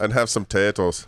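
playful attempt at Irish; Irish accent. Shown as a demonstration. Co-host showing off for Saint Patrick's Day, Irish accent. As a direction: put on a light Irish accent. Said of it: "I just want to do my Irish accent".

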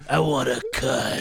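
slow cigarette smoker voice, scummy businesswoman. Acted. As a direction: play a scummy boss demanding her cut. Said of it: "like a scummy fucking business guy".

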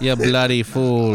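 slow, drawn-out Aussie scolding; mock Australian insult; Australian accent. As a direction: put on a broad Australian drawl. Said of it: "tell the story in an Aussie accent".

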